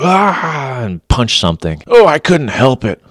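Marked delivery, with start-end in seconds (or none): 0.0-0.8 imitated angry yell. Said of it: "They yell". 1.9-3.0 high, whiny mock excuse; mock the man excusing himself. Cop mocking wall punchers, a high whiny excuse. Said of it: "I've seen people do it".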